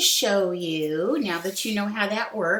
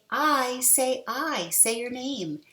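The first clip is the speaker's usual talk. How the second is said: voicing the magic E; 5 semitones higher, slower than usual. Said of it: "it's gonna come over and it's gonna say".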